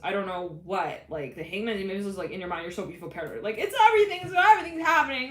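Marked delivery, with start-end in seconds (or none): 3.4-5.3 mock panic. Panic over everything going wrong.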